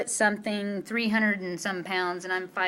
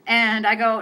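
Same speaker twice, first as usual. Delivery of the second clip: ordinary delivery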